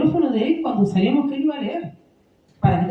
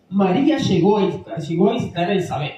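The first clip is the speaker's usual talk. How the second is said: imitating a hard reading; 4 semitones lower, 3 dB louder than usual. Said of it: "O sea, dura".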